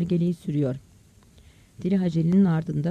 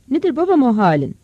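loud, raised-pitch worried call; shouted question; 5 semitones higher, 6 dB louder than usual. Acted. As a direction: shout the question to your child. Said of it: "diye bağırdı". (bağırarak, telaşla sorma)

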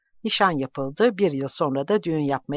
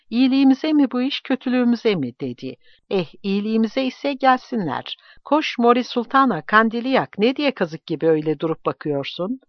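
high, raised voice of a bossy woman; agitated exclaiming; 7 semitones higher, 4 dB louder than usual. A narrator's reading. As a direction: fire off questions and orders, pitched well up. Loksandra questions, then orders girl about. (telaşlı, yüksek sesle çıkışarak)

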